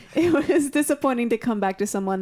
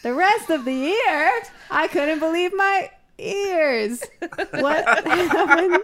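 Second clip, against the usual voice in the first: shocked disbelief; 7 semitones higher, slower than usual. Pretend. Mock shock over a new teacher.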